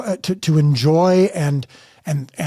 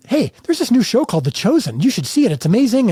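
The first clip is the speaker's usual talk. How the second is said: mom's excited voice; 8 semitones higher than usual. Retold or imitated. Mom calls rights holder excitedly.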